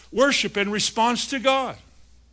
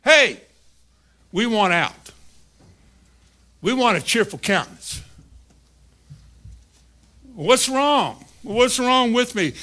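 higher, urgent calling voice; the spirit calls to the downcast soul, higher and urgent; 4 semitones higher than usual. Acted. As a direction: call up to the soul, pleading to be let out. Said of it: "Your spirit talks to you".

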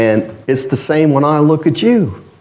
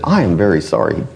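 lightly imitated Chinese accent, lower pitch; 5 semitones lower than usual. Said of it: "he said it with a Chinese accent".

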